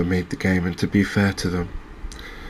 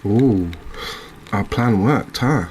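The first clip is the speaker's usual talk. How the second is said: pleasantly surprised; 3 semitones higher, slower than usual. Real, not acted. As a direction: react with mild delight to a sudden bite. Fish bites, plan has worked.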